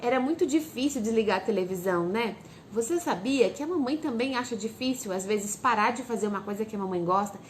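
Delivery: gentle, understanding. Shown as a demonstration.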